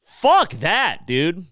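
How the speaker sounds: sharp high outburst of disgust; real angry outburst. Real, not acted. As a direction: spit it out, high and fed up. Angry patriotic rant.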